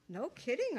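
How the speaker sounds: marveling. A narrator's reading. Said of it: "I marveled".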